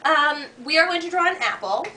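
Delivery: lightly perky homemaker host; a touch of a cheery housewife. Acted. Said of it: "There's your June the Homemaker voice".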